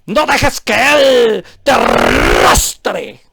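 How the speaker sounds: very slow, drawn-out parody of the preacher; mock preacher. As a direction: stretch out "no dejes que Él te arrastre" mockingly. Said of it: "porque hace el énfasis".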